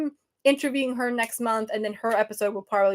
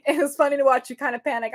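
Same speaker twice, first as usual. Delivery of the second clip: laughing; 3 semitones higher, faster than usual. Real, not acted. Laughing at her panic.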